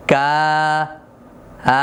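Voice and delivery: কা, then its vowel আ alone, both held; light front 'aa', stretched level; thin drawn-out alif. Shown as a demonstration. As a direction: separate the long vowel from the k. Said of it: "বাকি যে টানটা হচ্ছে".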